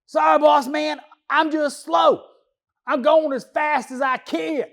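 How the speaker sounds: mock pleading worker, a touch shouty; pleading excuse. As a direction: beg the boss off like a slacker caught out. Worker's whiny reply to boss.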